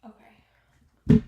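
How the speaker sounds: sung-out okay, high and loud; loud bright okay. Real, not acted. Reader calling out to viewers before the last reading, loud okay. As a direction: call it out to reset.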